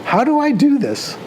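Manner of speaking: lightly imitated singer's puzzled cry. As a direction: ask it like a bemused rock singer. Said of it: "he'd go like this and say".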